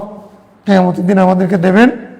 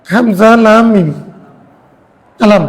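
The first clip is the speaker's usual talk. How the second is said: slow spelling out; slower than usual. Shown as a demonstration. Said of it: "আলামের মধ্যে হরফ কয়টা?".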